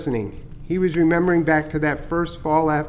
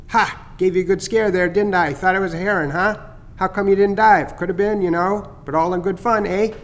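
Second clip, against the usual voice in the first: teasing starling; 3 semitones higher than usual. Acted. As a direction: gloat a little over the fake heron scare. Chatter teases after the scare.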